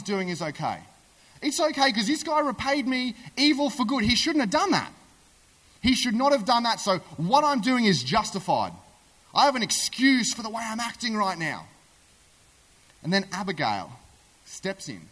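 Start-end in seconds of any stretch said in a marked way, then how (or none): 1.4-11.7 higher-pitched, insistent self-justification; self-justifying. Acted. David excusing his anger to himself, mock self-justifying. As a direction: talk yourself into it, pitched up. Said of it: "he's rationalizing in his head to himself".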